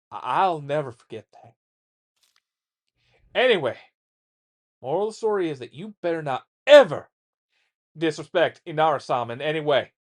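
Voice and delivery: put-on same rough rural father accent, swelling loud near the moral; old-timer accent. Father scaring his son off disrespect, rough accent. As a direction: tell the gory war story in the old man's accent. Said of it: "going with this accent".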